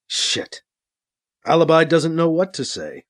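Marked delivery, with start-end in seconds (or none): 0.1-0.6 whispered curse. Acted. Sees the man is dead.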